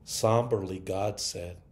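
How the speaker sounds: story reading. Acted. Preacher reading a Mother's Day story aloud, expressive. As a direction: tell the tale to the congregation, savoring it.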